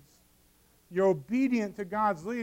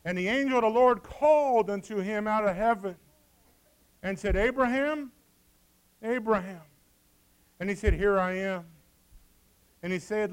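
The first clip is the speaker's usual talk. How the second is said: formal King James reading; scripture reading. Acted. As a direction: read the verse with weight. Reads scripture aloud.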